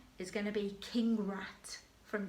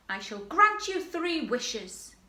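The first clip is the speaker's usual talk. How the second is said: slow, higher, louder grand voice; genie's grand promise; 6 semitones higher, 5 dB louder than usual. Shown as a demonstration. Teacher recaps the genie's line, grand and slow. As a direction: bestow the wishes grandly. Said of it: "We have the genie".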